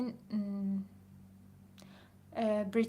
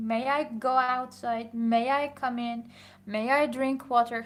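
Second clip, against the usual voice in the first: slow, louder model request for pupils; very polite; 5 dB louder, much slower than usual. Shown as a demonstration. Pupils asking the teacher's permission to leave class, very polite. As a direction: ask politely, slowly and clearly.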